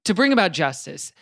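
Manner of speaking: upbeat youth pastor. Pretend. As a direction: build it up like a Sunday sermon. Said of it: "One of you guys do a youth pastor impression".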